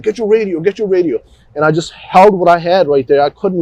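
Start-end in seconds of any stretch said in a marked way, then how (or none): 0.0-1.2 higher, pressed reminder to yourself; retold self-urging. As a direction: urge yourself, pitched up. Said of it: "just felt like".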